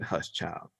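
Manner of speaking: retold gentle hushing. All Father silencing the screaming man, softly imitated. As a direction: quietly hush someone as a godly elder. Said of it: "And then the All Father said".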